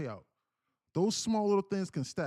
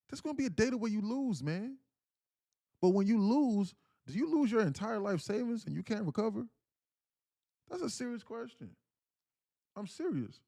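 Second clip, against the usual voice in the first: urgent warning; 7 semitones higher, 4 dB louder than usual. Real, not acted. Stressing to traders.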